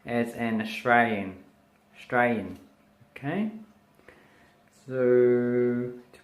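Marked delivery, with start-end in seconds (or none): 0.0-2.6 Australian said as "Strayan"; Aussie shortened pronunciation. Shown as a demonstration. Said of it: "as we say here".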